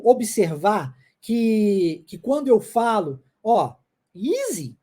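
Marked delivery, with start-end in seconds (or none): 4.1-4.8 "easy" with a drawn-out, rise-and-fall tune; intonation demo. Shown as a demonstration. Teacher showing the student the intonation of the phrase, exaggerated melody on "easy". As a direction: stretch "easy" slowly to show its melody. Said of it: "na entonação da frase".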